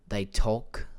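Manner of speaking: put-on Australian accent. Shown as a demonstration. Showing how Australians talk, mock Australian accent. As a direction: imitate Australian speech, lightly exaggerated. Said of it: "They say Australian".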